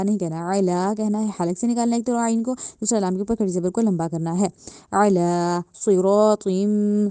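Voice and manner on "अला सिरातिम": सिरातिम with thick s and rounded lips; heavy recitation. Shown as a demonstration. Teacher recites with heavy letters for students, slow. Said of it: "स्वाद है उसको मोटा करेंगे".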